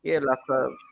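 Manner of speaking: barely audible. Real, not acted. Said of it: "You're cutting out".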